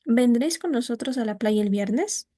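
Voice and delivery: "¿Vendréis con nosotros a la playa el viernes?" rising sharply on "viernes"; yes-no question rise. Shown as a demonstration. Teacher demonstrating a yes-no question for students, ending in a rise. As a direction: sweep up on "viernes". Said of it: "el tono al final es ascendente".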